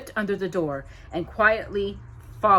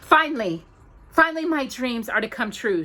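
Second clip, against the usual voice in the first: hysterical joy; 5 semitones higher, 4 dB louder than usual. Acted. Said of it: "she thought hysterically".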